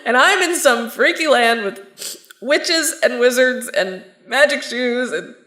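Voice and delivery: teary, half-laughing rant; a tearful laugh while pouring it all out; laughing through tears. Acted. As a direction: cry and laugh at once, overwhelmed. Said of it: "I'm crying".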